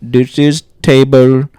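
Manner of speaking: drawn-out polite phone voice; mock customer service greeting; phone rep voice. Imitated rep introducing himself.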